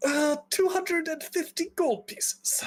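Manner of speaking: high, slow, timid quote of a price; very hesitant nervous clerk; anxious mage. Acted. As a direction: squeak it out, unsure and apologetic. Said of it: "he's just very elevated, very anxious".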